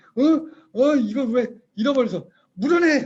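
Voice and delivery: loud, high-pitched, furious tone.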